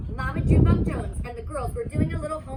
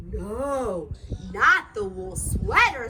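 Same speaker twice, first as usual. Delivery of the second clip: horrified no; 6 semitones lower, 3 dB louder, slower than usual. Acted. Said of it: "said Scipio".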